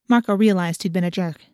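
plain reading voice

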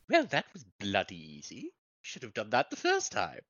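voice dropped. Acted. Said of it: "What happened to your voice?".

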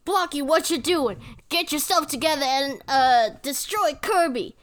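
lightly voiced commanding villain, mock-urgent; King Dedede. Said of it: "I think Kinky D D is like".

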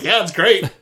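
hollow cheerful yes; sarcastic. Retold or imitated. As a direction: fake enthusiasm, loud. Mock enthusiastic reply.

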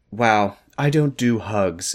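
slow, deadpan Ashley voice; drawn-out unimpressed sister. Acted. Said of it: "Ashley Voice one point oh".

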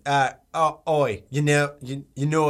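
halting attempt at an Aussie accent; Australian accent. Co-host trying to establish one voice, shaky grasp of Australian accent. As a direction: practise a mock Australian voice, fumbling. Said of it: "You gotta establish one of them first".

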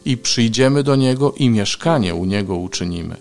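measured proclamation of the Gospel; scripture reading. Acted. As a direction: read it out emphatically, drawing out key phrases. Reads scripture and Gospel aloud. (uroczyste czytanie Ewangelii)

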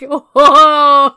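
high, loud gasp of amazement; loud whoa. Retold or imitated. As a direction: blurt it out, stunned. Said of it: "I was like".

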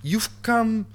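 badly faked British accent. Cat on two legs addressing its owner, badly faked British accent. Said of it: "speaks in a British accent".

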